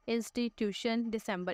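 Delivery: each word broken into syllables with small pauses; split into syllables. Shown as a demonstration. Teacher to class, sounding out syllables. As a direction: chop each word into its parts. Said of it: "ऐसे हम लफ्ज़ों को half half करके बोलते हैं".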